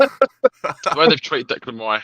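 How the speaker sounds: slow, grand butler delivery; posh butler voice. Pretend. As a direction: announce it like a stately butler. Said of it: "When did you get a butler?".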